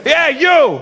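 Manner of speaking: high mock holler; single out your target with a yell; high-pitched imitated confrontation; insistent call. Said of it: "and he goes".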